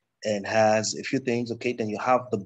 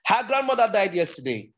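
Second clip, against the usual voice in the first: raised pitch, gliding down towards the end; middle pitch; 9 semitones higher than usual. Shown as a demonstration. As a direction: demonstrate a fairly high middle range. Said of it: "Middle pitch".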